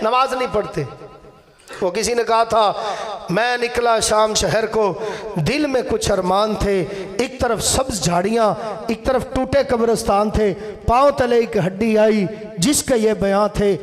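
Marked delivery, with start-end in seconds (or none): 3.3-13.8 measured verse with a pause after each phrase; poem recitation. Retold or imitated. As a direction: recite it line by line to an audience. (ठहर-ठहर कर शेर पढ़ते हुए)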